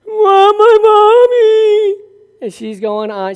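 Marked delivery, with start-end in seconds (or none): 0.1-2.0 put-on high, slow, crying little girl voice; whiny toddler. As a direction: whimper for mommy like a tired toddler. Grandchild crying for mother.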